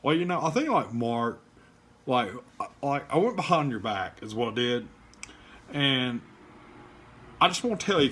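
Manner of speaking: a condescending host mocked in a Kentucky accent; mocking Snellen's Kentucky accent. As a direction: sneer it out in a put-on Kentucky accent. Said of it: "Snellen likes to talk like this".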